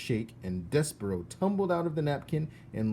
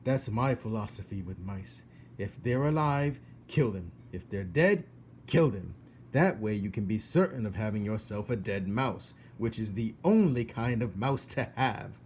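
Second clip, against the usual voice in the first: emphatic cook. Acted. Cook explains her rule.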